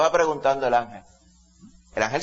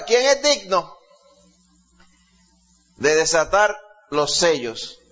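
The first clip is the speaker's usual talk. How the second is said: angel's shouted proclamation; 3 semitones higher, slower than usual. Retold or imitated. Preacher voices the strong angel crying out to all, shouted proclamation. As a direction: call it out like a herald. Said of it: "este ángel gritaba esto y preguntaba".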